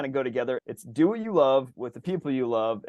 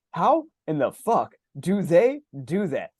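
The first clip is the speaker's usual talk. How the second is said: mock disbelief; 4 semitones higher, 3 dB louder, slower than usual. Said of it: "I'm like".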